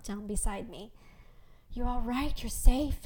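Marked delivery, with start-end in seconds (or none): 1.7-3.0 anxious. A narrator's reading. Joseph rushes in to his wife, anxious. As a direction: ask it with a touch of worry. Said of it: "anxiety creasing his face".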